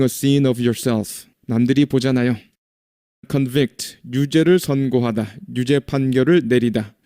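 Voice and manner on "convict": Convict stressed on the back syllable, con-VICT; second-syllable stress. Shown as a demonstration. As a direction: say Convict as a verb, weak con, strong VICT. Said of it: "뒤에 강세가 있습니다". (Convict의 뒤 음절 vict에 강세)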